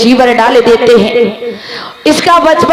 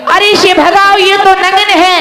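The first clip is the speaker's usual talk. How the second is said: lightly acted crowd outcry, pitched up; alarmed onlookers; 5 semitones higher than usual. Onlookers protest the girl nearing the Buddha, mildly alarmed. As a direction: raise the pitch like a protesting bystander. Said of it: "सारे लोग चर्चाएं करने लगे".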